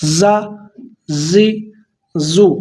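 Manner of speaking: زا، زی، زو with a hissing whistle on the z; whistling z. Shown as a demonstration. Teacher showing students the whistling ز. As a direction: let the ز whistle through the teeth. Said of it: "سیٹی والی آواز نکال کے".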